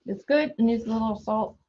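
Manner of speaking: talking right after a taste; tasting off spoon. Real, not acted. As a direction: speak just after sipping from a spoon. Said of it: "then I'm gonna test for flavor".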